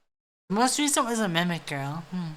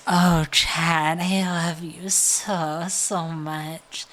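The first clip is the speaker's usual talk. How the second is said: sweet slow ASMR roleplay voice, a touch louder; 2 semitones lower, 4 dB louder, much slower than usual. Shown as a demonstration. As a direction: coo it like an ASMR roleplay to Chad. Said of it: "I have an A S M R voice".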